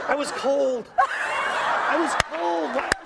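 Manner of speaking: whiny wife. Retold or imitated. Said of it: "She goes".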